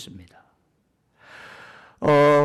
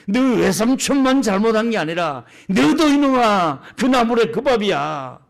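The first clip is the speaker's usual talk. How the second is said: higher, indignant dressing-down; God scolding; 4 semitones higher than usual. Acted. God rebukes Jacob for blaming his uncle, higher indignant scolding. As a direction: scold like an elder catching out a hypocrite. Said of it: "이러면서 하나님이".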